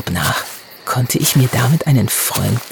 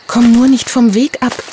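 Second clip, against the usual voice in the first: higher elf voice, gently cautioning; warning elf; 9 semitones higher than usual. Acted. Elf Abby warns Hannah in the dark forest, higher admonishing voice. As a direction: warn the girl like a small fairy would. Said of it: "mahnte Abby".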